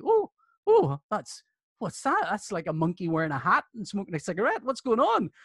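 high, hammed-up gasp of baffled curiosity; mock startled English listener. Guest mocks English reaction to Northern Irish accents, hammed-up surprise. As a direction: play someone gawping at an oddity.

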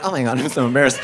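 low mock embarrassed owner; sheepish mumbled owner voice; embarrassed client. Owner embarrassed at the vet, mock low mumble.

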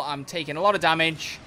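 usual speaking voice

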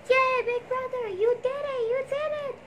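high, happy cheer. Acted. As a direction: cheer him on, delighted. Kids cheering success.

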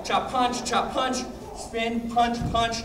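calling the count as they move. Real, not acted. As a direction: lead the class through the combo. Instructor calling count to class.

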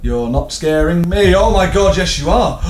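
high, rising alarm broken by a gasp; panicked. Real, not acted. Player spotting Slender Man, rising panic. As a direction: lose your bravado as the voice climbs. Monster appears while playing.

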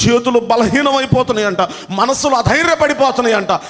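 high, urgent preacher's cry; impassioned preaching. Acted. Preacher warning the church about failing knees, fervent.

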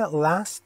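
last with a gliding "eh-a" vowel; attempted American "last", front vowel slightly glided. Shown as a demonstration. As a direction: say "last" American style, e blended into a. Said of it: "در انگلیسی امریکایی همون ای".

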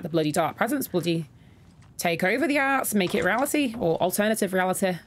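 put-on a light northern English accent, slipping in unplanned. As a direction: muse in a half-conscious northern English accent. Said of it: "Don't know why I'm using a northern accent".

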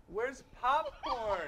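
put-on baby corn voice. Baby corn line in joke.

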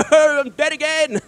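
amused defeat at dying again; laughing. Real, not acted. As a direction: laugh through the words in disbelief.

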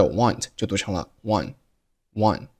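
"want" said like "one", final t dropped, slow; "want" with the nt swallowed so it sounds like "one". Shown as a demonstration. Teacher showing the reduced "want" slowly.

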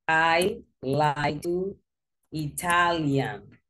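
slow, deliberate I like to Italian, words spaced out; quoting the student's error word by word; slow wrong example. Shown as a demonstration. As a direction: lay out the learner's mistake slowly. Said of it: "But you say Italian".

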